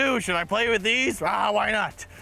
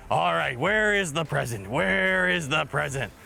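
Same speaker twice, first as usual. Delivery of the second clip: lower, lightly voiced cheerful pirate growl; 4 semitones lower than usual. Pirate host greeting kids over toy trucks, cheerful pirate voice. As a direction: play a jolly pirate showing toys.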